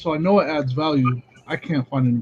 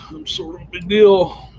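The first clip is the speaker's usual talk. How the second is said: lightly played big deal, a little higher; self-important; 4 semitones higher, 3 dB louder than usual. Answering the phone as a big deal, mildly self-important. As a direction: mildly act like a big shot. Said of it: "act like you're a big deal".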